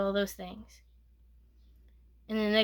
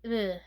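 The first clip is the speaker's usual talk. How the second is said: disgusted ugh. Real, not acted. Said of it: "I'm just like".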